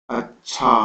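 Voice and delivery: "अच्छा" split and stretched, long last vowel; drawn-out wave. Shown as a demonstration. Teacher demonstrating a wave to students, stretched "अच्छा". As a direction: draw "अच्छा" out so the end rolls on. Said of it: "तो एक लहर आगे चलती है".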